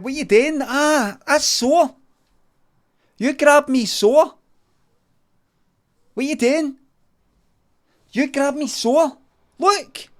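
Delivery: high, loud whining complaint; mock wounded whine; whiny hurt voice. The speaker whining after being grabbed.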